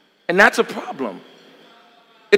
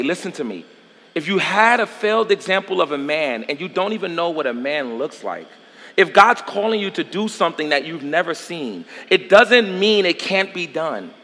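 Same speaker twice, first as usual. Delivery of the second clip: intimate; 3 semitones lower, 5 dB quieter than usual. Real, not acted. Intimate appeal to listeners.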